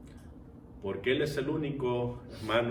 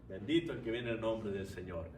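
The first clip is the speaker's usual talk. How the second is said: low, very soft echo of the acclamation; hushed repeat; 6 semitones lower, 10 dB quieter than usual. Retold or imitated. Preacher repeats the crowd's blessing to the congregation, quietly. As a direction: say it quietly, well under the usual voice.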